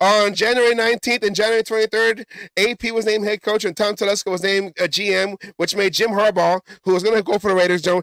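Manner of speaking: rushed, rapid-fire sportscaster voice, racing through words. Reading aloud for a video like a teleprompter sportscaster, as fast as possible. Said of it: "I'm gonna read as fast as I can".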